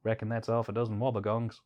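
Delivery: put-on a light Australian accent, laid-back; playful mock Australian bloke. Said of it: "That was an interesting accent".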